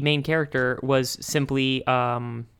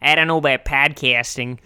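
put-on Jersey accent. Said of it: "Jersey guy".

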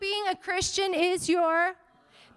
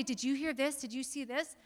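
hushed gossiping aside, much softer; mock gossip; 3 semitones lower, 7 dB quieter than usual. Pastor imitating a churchgoer spreading gossip, hushed. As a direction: lean in like spreading a rumour. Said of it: "go to everybody else and say".

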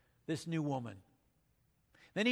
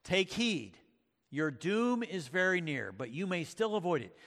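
lightly voiced Aslan; 3 semitones higher than usual. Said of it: "said Aslan".

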